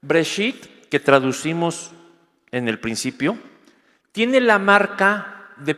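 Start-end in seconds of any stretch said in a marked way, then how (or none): 0.0-0.9 Breshit with a full stop after it; Breshit, a clear break before going on; pause after Breshit. Shown as a demonstration. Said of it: "tengo que leer en hebreo Breshit y hacer la pausa".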